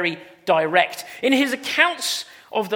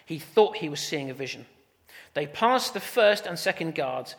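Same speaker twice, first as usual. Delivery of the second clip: measured read-aloud, easing lower at phrase ends; scripture reading; 4 semitones lower, 4 dB quieter than usual. A narrator's reading. Preacher reading Acts to the church, measured scripture reading. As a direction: read the passage out clearly and soberly. Reads the Bible passage aloud.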